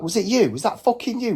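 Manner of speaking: high-pitched mock accusation; imitated indignant interrogation; accusing. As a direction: confront him as if outraged. Acting out accusation after window windup.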